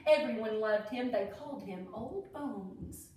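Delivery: sing-song rhyme read aloud; reading to children. A narrator's reading. Teacher reading a Derby rhyme book to kids, sing-song. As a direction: read the verse like a storybook.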